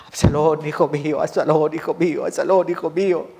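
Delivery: understated mournful chant of grief; lightly voiced grieving father's lament; acted lament. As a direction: mourn a lost son, restrained. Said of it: "que no sea ese nuestro lamento".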